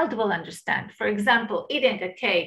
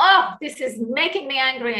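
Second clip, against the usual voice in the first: quick, firmer mild anger; a touch more anger for level two; a bit more annoyed; 2 semitones higher, much faster than usual. Shown as a demonstration. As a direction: step the irritation up a notch, faster. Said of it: "make a little bit more".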